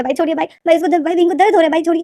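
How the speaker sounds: desperate weepy pleading; crying plea. A narrator's reading. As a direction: plead through tears with a big brother. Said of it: "लेनदेन जो मारे जा रहा था".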